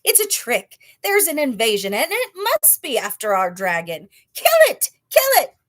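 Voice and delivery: high, loud furious cries building to a scream; angry yelling. A narrator's reading. Jungle animals yelling to kill the dragon, furious high shouts. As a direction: yell it like a mob out for blood. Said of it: "all yelling".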